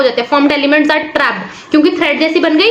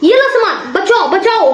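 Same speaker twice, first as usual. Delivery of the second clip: mock rescuer; 2 semitones higher than usual. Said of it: "वो अपने bag से सामान निकालेगा".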